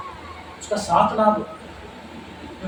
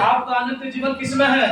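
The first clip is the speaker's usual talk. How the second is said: preacher's call; 4 semitones higher than usual. Acted. Preacher calling to congregation.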